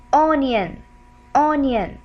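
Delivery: "onion" slowly, ending in "yin"; "onion" said carefully with a clear y glide; demonstrated yin ending. Shown as a demonstration. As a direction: stretch "onion" as a model word, falling. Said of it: "When I say".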